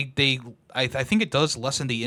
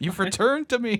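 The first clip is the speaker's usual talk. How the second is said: put-on deranged old man voice, pitched higher; 10 semitones higher than usual. Imitating Al from Al's Toy Barn finding Woody: deranged old man voice. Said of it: "he's like some deranged old man".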